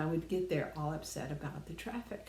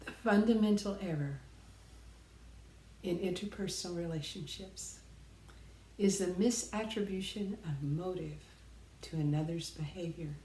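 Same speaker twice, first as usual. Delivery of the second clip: recited quote. Shown as a demonstration. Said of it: "I think I can still quote it right".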